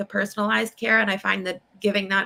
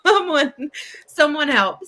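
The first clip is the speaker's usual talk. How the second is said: mock plea for help; 4 semitones higher, 5 dB louder than usual. Acting overwhelmed six-year-old pleading.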